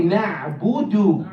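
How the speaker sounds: "نعبد" in measured syllables, firm d; clear dal. Shown as a demonstration. Teacher asking students to repeat, "نعبد" with clear dal. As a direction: place each syllable of "نعبد" cleanly.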